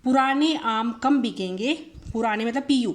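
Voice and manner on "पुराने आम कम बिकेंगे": slow mnemonic. Shown as a demonstration. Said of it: "उसके बाद".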